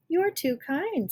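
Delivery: put-on high, slow little-girl voice; childlike, drawn-out thanks; sweet little girl. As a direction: play the polite little girl, slowly.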